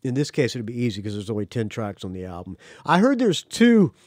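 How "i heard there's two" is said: words pushed out through a burp. Real, not acted. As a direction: talk through a rising burp. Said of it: "excuse me, I'm burping up this fine".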